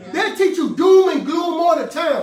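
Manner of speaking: doom and gloom called out loud. Shown as a demonstration. Preacher repeating for the congregation, loud shout. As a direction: punch the repeat at full voice. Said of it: "Y'all with me?".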